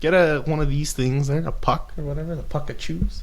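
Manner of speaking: put-on mild Canadian hockey bro accent; a loose Canadian hockey bro sign-off. Canadian hockey bro accent, signing off the podcast to listeners. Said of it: "you do the sign off in that voice".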